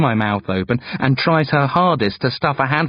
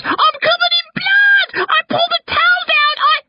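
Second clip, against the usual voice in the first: scream; 4 dB louder than usual. A narrator's reading. Girl telling parents about the bloody towel, screaming. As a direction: wail it in horror, then break off. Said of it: "Gret screams".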